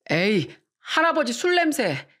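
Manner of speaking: put-on slow, drawn-out kid's complaint; childish teasing whine; complaining child. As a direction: play a little kid put off by a smell. Child complains grandpa smells of alcohol.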